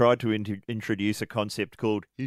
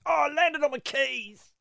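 high, goofy quoted line; Wayne's World quote. Retold or imitated. Host recalling a favourite Wayne's World line, silly high voice. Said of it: "The catchphrase I liked from Wayne's World".

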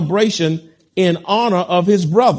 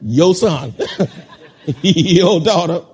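laughing mock disowning; 3 dB louder, slower than usual. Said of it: "When they do bad".

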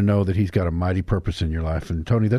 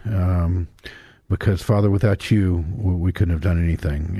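prayer. Acted. Opens the show in prayer.

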